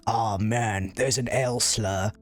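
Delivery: slow, put-on British accent; Antra's British accent. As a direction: imitate a British streamer with an exaggerated accent, drawing it out. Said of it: "sorry about that accent".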